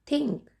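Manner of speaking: थिंक starting with an aspirated थ. Shown as a demonstration. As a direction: teach थिंक with a clear थ at the front. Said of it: "थ का sound आ रहा है".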